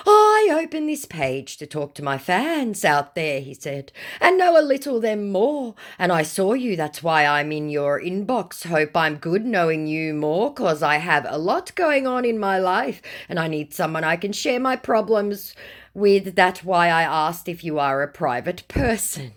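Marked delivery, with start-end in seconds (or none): 0.1-3.4 higher, hammed-up fake-celebrity voice; mock pleading scammer. 4.2-19.3 higher, hammed-up fake-celebrity voice; mock pleading scammer.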